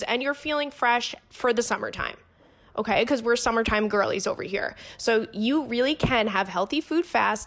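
chatty host-read sponsor spot; conversational product plug; podcast ad read. Real, not acted. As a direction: read the sponsor copy smoothly and evenly. Reads a sponsor ad.

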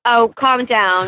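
slow, stretched "Oh, calm down" with a long "calm"; drawn-out calm down. Pretend. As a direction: draw out "calm" like a mock diva. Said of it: "repeated catchphrase, drawn out".

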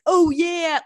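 exaggerated, cringeworthy fake American accent; Briton faking American accent. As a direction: mimic a Brit's bad American accent. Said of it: "British people love being like".

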